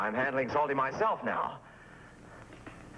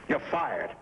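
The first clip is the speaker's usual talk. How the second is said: angry firing; 5 semitones higher than usual. Acted. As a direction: throw him out, voice climbing. Fires his agent.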